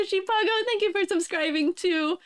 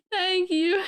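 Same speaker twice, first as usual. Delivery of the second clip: tearful thanks. Real, not acted. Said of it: "I have so many tears".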